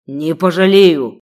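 loud, slow, enraged shout; the sheikh roars back at his servant; furious shout. A narrator's reading. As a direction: refuse with fury. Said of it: "раздалось в ответ".

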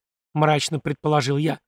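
usual speaking voice

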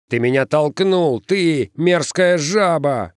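high, accusing holler; angry yell. A narrator's reading. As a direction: yell at the one who shoved you. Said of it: "заорал один из них".

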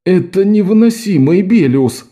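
frustrated moan; groaning. Acted. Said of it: "простонал Лок".

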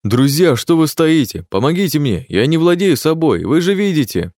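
high, loud desperate wail; fake wailing plea. A narrator's reading. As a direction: ham up the helpless victim. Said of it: "Начал вопить этот подонок".

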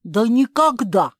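sharp, high and loud outcry of protest; indignant. Acted. Pagl refuses to abandon her sister, indignant. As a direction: fling it back in outrage. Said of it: "возмутилась Пагль".

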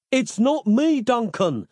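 frantic plea to Duncan; yelled in vain. A narrator's reading. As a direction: shout the warning over the din. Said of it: "Nick yelled out in vain".

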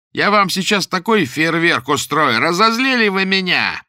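high, loud, slow furious yelling; enraged threats. Acted. The maniac screams at the laughing girls, furious. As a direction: rage at being laughed at.

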